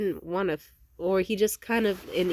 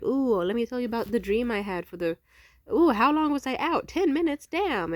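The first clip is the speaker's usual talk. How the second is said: groggy friend; 5 semitones higher, 5 dB louder than usual. Retold or imitated. Imitating groggy friend waking.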